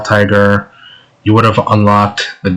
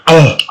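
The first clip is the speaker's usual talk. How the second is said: pufferfish impression; 6 semitones higher, 3 dB louder than usual. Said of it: "That's my pufferfish impression".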